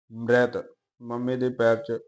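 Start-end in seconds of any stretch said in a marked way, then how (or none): 0.1-0.6 ਮ੍ਰਿਤ with the r blended into the m; half-sounded r. Shown as a demonstration. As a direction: say ਮ੍ਰਿਤ as one syllable with a half r. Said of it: "ਇਸ ਕਰਕੇ ਅੱਧਾ ਉਚਾਰਨ ਕਰੀਦਾ ਹੈ".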